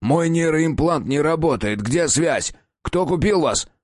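high, panicked demands; hysterical. Acted. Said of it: "пока истерика закончится".

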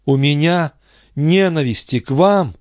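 a high, startled cry of disbelief; exclaiming. A narrator's reading. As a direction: fling the question back, voice jumping up. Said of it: "воскликнул Андре".

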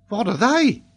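high-pitched, innocent query; composed little pupil; unruffled child. Acted. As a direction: ask it undisconcerted in a high child's voice. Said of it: "not the least disconcerted".

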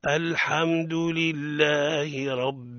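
slow tajweed recitation; model recitation. Shown as a demonstration. Teacher leading the class in recitation, slow. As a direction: recite slowly for the class to repeat. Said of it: "نبدأ من أول الآية".

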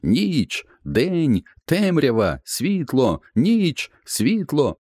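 very high alternating bird cries; falcon and raven crying night and light; bird shouting match. Acted. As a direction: trade calls back and forth like birds. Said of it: "Вони продовжували кричати".

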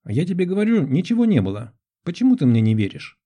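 high, thin voice of a man protesting; thin-voiced man. A narrator's reading. Guilty man to a doubting woman, thin voice. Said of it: "Голос у мужчины был тонкий, неподходящий для такой внешности".

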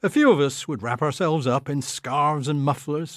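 usual speaking voice

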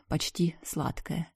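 plain reading voice

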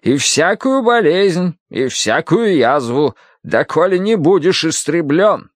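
high, slow scripture declamation; stern Bible-reading woman. Acted. Woman with a Bible over a patient, menacing high intoning. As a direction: intone the curse in a high, drawn-out voice. Mrs. Gadson reads scripture.

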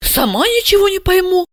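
a puzzled inner echo, high and light; Asya thinking. Acted. Asya muttering to herself, high and puzzled. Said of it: "подумала Ася".

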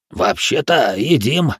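usual speaking voice

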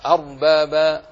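"أرباب" loud, its ر thick and heavy. Shown as a demonstration. Teacher repeating the example word, "أرباب" with heavy ر. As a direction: sound out "أرباب" with emphatic ر. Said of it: "تفخم".

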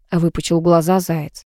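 plain reading voice

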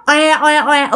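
"oe oe oe" like a newborn crying; storyteller's light baby-cry imitation; imitated baby cry. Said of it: "nó cứ khóc".

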